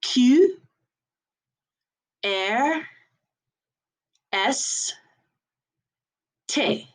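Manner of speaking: "Q, R, S, T" as "kü, air, ess, tay"; French letters spaced one by one; French letter names. Shown as a demonstration. Teacher for class to repeat, French "kü, air, ess, tay". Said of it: "So let's repeat after me".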